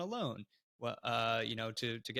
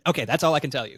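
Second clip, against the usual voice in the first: laughing; 2 semitones higher, 13 dB louder, faster than usual. Real, not acted. Laughing teasing secret.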